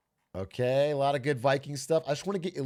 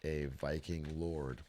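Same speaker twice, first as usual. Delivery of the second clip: deep, slow movie-trailer voice; epic announcer; 13 semitones lower, 12 dB quieter, slower than usual. Pretend. Streamer booming a deep trailer voice intro. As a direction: boom it out like a trailer narrator.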